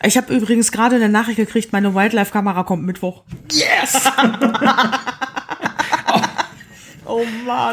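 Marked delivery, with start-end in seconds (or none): 3.5-7.7 happy cheer at good news; excited. Real, not acted. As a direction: cheer it with delight. Camera delivery news.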